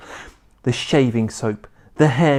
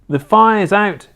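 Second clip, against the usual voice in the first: slow, louder proud declaration; proud announcement; 7 semitones higher, 6 dB louder than usual. A narrator's reading. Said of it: "George announced proudly".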